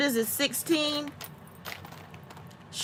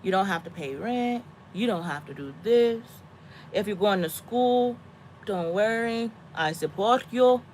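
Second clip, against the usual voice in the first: mild, reassuring sales pitch; laying it on thick; 5 dB quieter than usual. Retold or imitated. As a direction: sell it gently, as a sweet persuasion. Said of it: "I make it sound real good".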